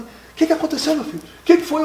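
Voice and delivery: pressing fatherly worry; worried father. Retold or imitated. Imitating his father pressing him for an answer. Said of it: "eu parado".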